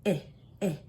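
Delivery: eh, eh as a short clipped short-i sound; letter sound demo. Shown as a demonstration. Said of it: "I says".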